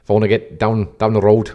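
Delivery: lightly put-on Liverpool accent; Scouse impression for a gag. Shown as a demonstration. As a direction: slip into joking Scouse. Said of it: "I do go a bit of Scouse".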